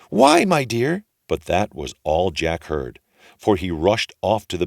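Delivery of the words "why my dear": high-voiced ogre's wife. A narrator's reading. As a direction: sweetly ask as the giant's wife. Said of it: "And his wife said".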